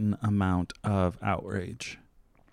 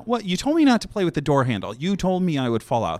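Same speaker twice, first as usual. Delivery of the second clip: a hint of a hurt child, higher, louder and fast; child whining; 6 semitones higher, 3 dB louder than usual. Child blaming himself to the driving friend, mock hurt. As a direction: play the kid who fell out of the car. Child in back seat scolded.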